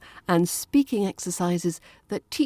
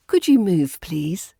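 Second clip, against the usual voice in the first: very British politeness; 4 dB louder than usual. Shown as a demonstration. English teacher modelling a very British polite request. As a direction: ask courteously, letting please drop. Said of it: "that's very British".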